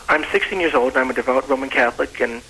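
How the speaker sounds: speaking up. Real, not acted. Teenage caller asked by the host to repeat, speaking up a little. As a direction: speak up slightly on request. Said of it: "Will you speak a little louder?".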